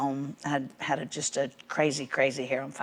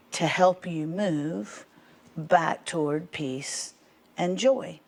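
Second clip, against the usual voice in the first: careful offer; 2 semitones higher, much slower than usual. Retold or imitated. Retells careful offer to daughter.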